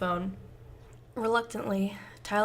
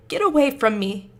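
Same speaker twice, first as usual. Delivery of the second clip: frightened; 5 semitones higher, 8 dB louder than usual. Acted. Tyler recoils.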